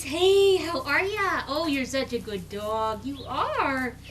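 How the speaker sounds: calm but happy. Shown as a demonstration. Breeder shows puppies her praise voice, calm but happy. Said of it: "in a calm but happy voice".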